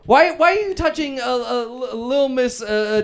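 loud, high-pitched disbelief; scandalized host calling out a guest; shocked objection. Acted. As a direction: raise the voice in alarmed protest. Host catches guest grabbing microphone.

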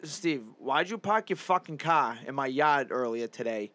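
slow mock complaint, Boston accent; hammed-up annoyed neighbor; angry neighbor. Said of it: "be Steve, be like".

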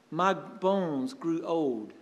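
groaning lament. Retold or imitated. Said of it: "you see the intensity of him".

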